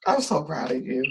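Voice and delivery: soft, heartfelt congratulation after a sigh; quiet, sincere and moved; tearful pride. Real, not acted. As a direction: let emotion hush the voice.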